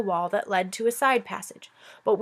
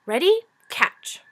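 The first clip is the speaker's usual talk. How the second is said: calling out; 8 semitones higher, 4 dB louder, slower than usual. Acted. Shiera calling down.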